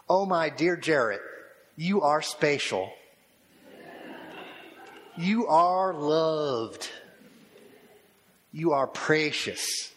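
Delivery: put-on a touch of a West Texas aunt's accent, "spatial" with a long a. Aunt from the Texas cotton fields telling her nephew he's loved, in a light Texas accent. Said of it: "In her wonderful accent from the cotton fields".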